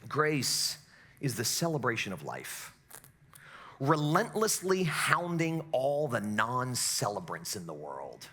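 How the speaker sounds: low, quiet quotation, read reverently; quiet reading of a quote. Retold or imitated. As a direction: read the quote softly to yourself. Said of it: "when he says this".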